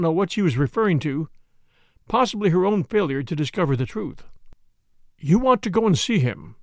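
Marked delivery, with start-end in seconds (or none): none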